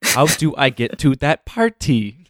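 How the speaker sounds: drawn-out, slow impression of a friend; slow mocking imitation. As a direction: stretch it out slowly, mocking. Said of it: "sometimes you'll go like".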